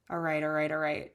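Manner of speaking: a light, joking McConaughey impression; Matthew McConaughey. Tarot reader slipping into McConaughey's catchphrase, lightly drawled low. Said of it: "sounds like I'm channeling Matthew McConaughey".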